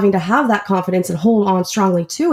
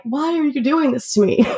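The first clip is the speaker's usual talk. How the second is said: higher-pitched mock protest, amused; playful imitation of reluctance; reluctant complaint; 6 semitones higher than usual. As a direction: complain like someone being dragged along. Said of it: "They're, like, dragging their feet".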